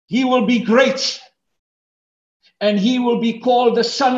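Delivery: high, proclaiming Bible reading; lifted, declamatory preacher's reading; preached scripture. Acted. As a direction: proclaim the verse like a herald. Reads scripture at rising force.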